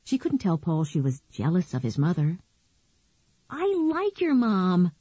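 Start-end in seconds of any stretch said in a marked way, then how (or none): 3.5-4.9 put-on girl's voice. Nicky voiced by narrator.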